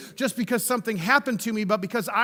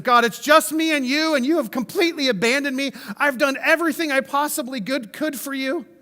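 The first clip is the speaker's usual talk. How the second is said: a hint of self-pity, pleading with God; pity party voice; 4 semitones higher than usual. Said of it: "with a pity party voice".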